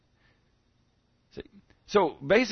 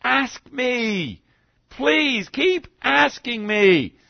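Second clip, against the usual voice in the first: pleading loving Father; 3 semitones higher, slower than usual. Acted. Voicing God to the congregation, a gentle pleading father. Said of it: "He is saying".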